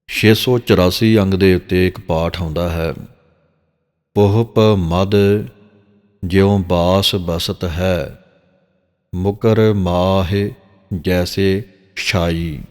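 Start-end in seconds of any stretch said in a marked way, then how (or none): 4.1-12.6 slow, drawn-out chant of the verse; slow scripture recitation. Shown as a demonstration. Granthi demonstrating Gurbani pronunciation to the congregation: slow recitation. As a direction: recite each word slowly and carefully. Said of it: "ਇਹਨੂੰ ਪੁਹਪ ਪੜ੍ਹਨਾ ਹੈ".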